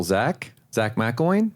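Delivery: slow, gently questioning "Zach McElwain"; measured, curious rise on "McElwain"; simple upward inflection. Shown as a demonstration. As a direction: lift the end of "McElwain" without overdoing it. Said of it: "it's simple".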